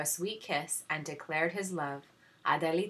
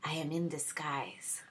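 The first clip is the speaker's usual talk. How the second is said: sweet smile; 5 dB quieter than usual. Acted. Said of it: "with a twinkle and a sweet smile".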